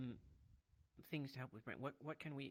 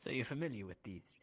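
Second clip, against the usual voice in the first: whisper; 7 semitones lower, 8 dB quieter than usual. Real, not acted. Late night, whispered teasing.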